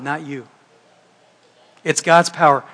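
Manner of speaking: ordinary talk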